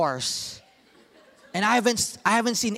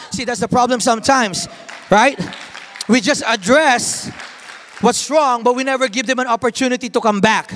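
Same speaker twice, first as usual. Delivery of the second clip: louder, emphatic preaching; preaching force; 3 semitones higher, 5 dB louder than usual. Real, not acted. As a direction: drive the point home. Preaching climax.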